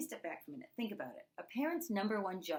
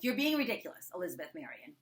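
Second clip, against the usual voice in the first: scolding parent; 4 dB louder, faster than usual. Retold or imitated. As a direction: imitate a parent pulling out the full name. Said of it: "first name and the middle name gets pulled out".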